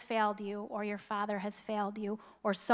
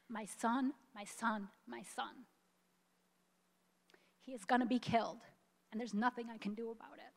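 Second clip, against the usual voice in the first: quiet, tearful, voice catching; fighting back real tears while quoting the mother; soft choked plea, fast on the last lines; 11 dB quieter than usual. Real, not acted. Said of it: "I get so choked up about this".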